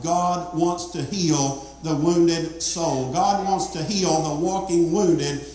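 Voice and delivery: slow, deliberate, rising preaching; slow fervent preaching. Acted. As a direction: lean into each word like a plea. Slow building preaching climax.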